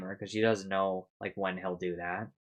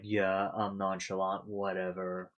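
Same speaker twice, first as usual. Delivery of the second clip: mock nonchalant; 4 dB quieter, slower than usual. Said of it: "they show him as".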